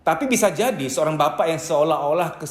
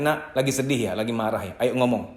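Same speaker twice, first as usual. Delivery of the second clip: gentle parent; 5 semitones lower, faster than usual. Shown as a demonstration. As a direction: coax the child to open up, tenderly. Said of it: "orang tua ngomong kepada anaknya".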